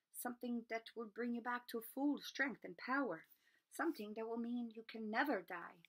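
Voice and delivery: a wise creature giving a dark warning; solemn centaur. Acted. Centaur Firenze warns Harry about unicorn blood, solemn and grave.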